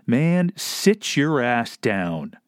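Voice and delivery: slow, deliberate put-down. Acted. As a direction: spell it out slowly, dismissive. Telling the mayor off.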